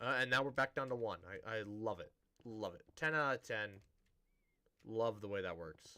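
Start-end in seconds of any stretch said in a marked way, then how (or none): 1.5-6.0 dry, sarcastic tone. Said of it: "My sarcasm".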